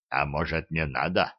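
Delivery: shy, hesitant question; timid. A narrator's reading. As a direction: ask meekly, afraid to object. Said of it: "робко спросил гигант".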